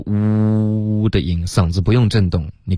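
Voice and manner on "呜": 呜 held long with the voice on; voiced oo. Shown as a demonstration. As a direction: hum a long rounded 呜. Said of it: "嘟嘴的时候发一个".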